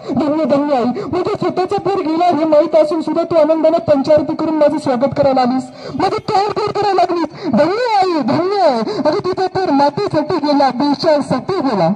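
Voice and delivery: king honoring a mother's sacrifice; awed king. Acted. King to the mother, moved and reverent.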